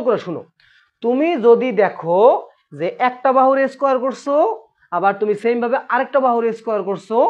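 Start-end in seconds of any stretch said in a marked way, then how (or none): 1.0-2.2 slow, measured teacher delivery; slow, careful. Shown as a demonstration. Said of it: "আমি আস্তে আস্তে কথা বলতেছি". 2.8-7.2 measured step-by-step explaining; careful teacher pacing, phrase by phrase; slow, careful. Shown as a demonstration. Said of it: "আমি আস্তে আস্তে কথা বলতেছি".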